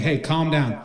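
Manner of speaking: mild soothing appeal; lightly voiced reassurance; acted calming. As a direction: play a coach settling down a colleague. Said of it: "tries to calm him down".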